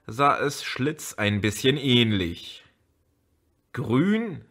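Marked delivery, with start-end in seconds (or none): 3.7-4.4 scornful question on Grün; disdainful echo of Grün; contemptuous. Acted. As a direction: sneer the word Grün. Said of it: "sagte Elmar verächtlich".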